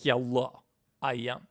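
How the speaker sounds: slow, deliberate fake Russian accent; Victor, bad Russian accent. Shown as a demonstration. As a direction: introduce yourself as a hammy Russian-accented character. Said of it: "Victor is just me doing a bad Russian accent".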